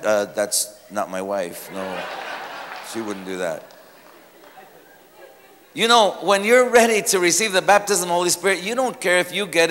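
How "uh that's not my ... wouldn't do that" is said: stunned husband. Retold or imitated. Husband seeing his wife at altar, low stunned mumble.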